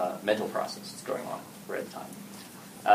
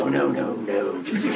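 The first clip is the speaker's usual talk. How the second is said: laughing GM; 2 semitones higher, 3 dB louder, slower than usual. Retold or imitated. GM laughing at clueless player.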